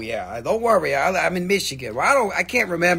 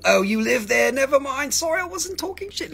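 mock apology; 9 semitones higher, 4 dB louder than usual. Real, not acted. Backpedalling after insulting New Jersey.

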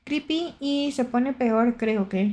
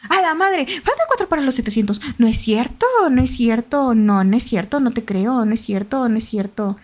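loud, stunned excitement; overexcited; 3 dB louder than usual. Real, not acted. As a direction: burst out in disbelief at amazing news. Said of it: "me emocioné".

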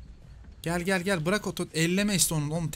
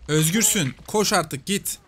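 loud, urgent, higher call; excited shout; 3 semitones higher, 5 dB louder, much slower than usual. Real, not acted. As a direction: yell at them to run now. Urging freed teammate to run.

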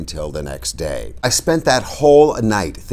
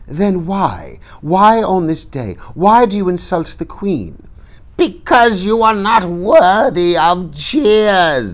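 high, cracked crone voice, much higher and slowing on the last line; an old hag hurling blame at the queen; accusing old crone; 11 semitones higher, 5 dB louder, slower than usual. A narrator's reading. Old woman confronting the Queen before the crowd, high accusing crone voice. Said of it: "the old woman said".

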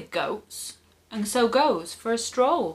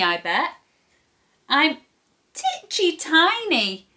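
put-on higher-pitched little boy voice; pleading boy; 7 semitones higher than usual. A narrator's reading. Boy talks troll out of eating him, high pleading. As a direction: plead like a storybook boy bargaining. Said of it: "cries the boy".

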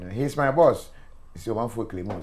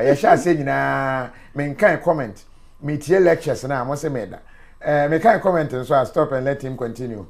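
excited laughing retelling; 6 semitones higher, 6 dB louder than usual. Retold or imitated. Host retells own reply, laughing, excited.

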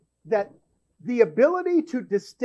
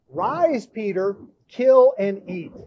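eager command; 3 dB louder, slower than usual. Acted. Preacher re-voices the heavenly command.

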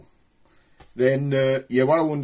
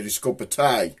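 broad Black Country accent, flat "tea" like "tie"; 3 semitones lower than usual. Shown as a demonstration. Showing the local way to the audience, in a broad Black Country accent. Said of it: "to anybody around from round here".

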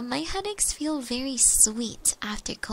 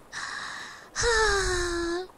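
high, airy drawn-out sigh; long sigh; 7 semitones higher than usual. Real, not acted. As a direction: let out a long voiced breath. Sound between chat messages.

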